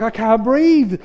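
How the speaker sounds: high, loud mock gasping cry; imitated breathless plea. Visitor overcome by laughing fit, mimicked breathless cry. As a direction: act out being winded by belly laughs. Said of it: "now he's bellyache laughing".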